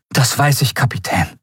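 high, bright-eyed plea to come along; eager young Miko. Acted. Miko asking the captain to come along, high eager voice. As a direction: ask to join like a thrilled youngster.

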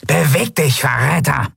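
high, contemptuous guard's command; guard's yell at contained volume; barked order. A narrator's reading. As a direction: order a prisoner on, pitched high. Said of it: "brüllte die Skria-Gardistin".

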